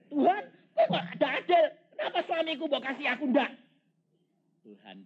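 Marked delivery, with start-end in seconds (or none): 0.1-3.5 high, loud wailing complaint to God; hammed-up tearful wife; jealous wife's cry. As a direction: plead as the envious weeping wife.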